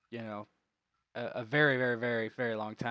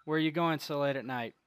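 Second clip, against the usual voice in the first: lightly voiced guard, raised and louder; a hint of a guard's challenge, pitched up; questioning guard; 5 semitones higher, 5 dB louder, faster than usual. Guard stopping late-night travelers, lightly voiced questioning.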